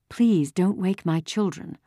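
restrained, careful motherly appeal; pleading mother. A narrator's reading. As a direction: plead gently for the children. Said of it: "Mama requested again".

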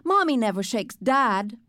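lightly voiced small child; little boy Fudge. A narrator's reading. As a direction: pipe up as an indignant little boy. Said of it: "Fudge said".

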